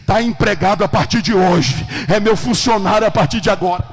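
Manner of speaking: very loud, emphatic announcement; acted big-voiced decree; booming proclamation. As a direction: declare the hire triumphantly.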